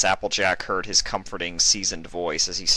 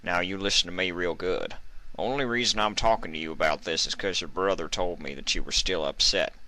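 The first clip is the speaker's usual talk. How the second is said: controlled anger. Acted. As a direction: keep the anger reined in. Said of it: "hint of controlled anger in his voice".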